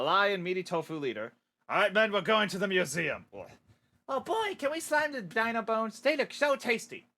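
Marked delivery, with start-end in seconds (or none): 4.1-7.1 higher, odd greedy minion voice; eager slime minion. Acted. Slime minion asking the boss about dino bones, eager squeal. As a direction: drool over the bones like a hungry blob.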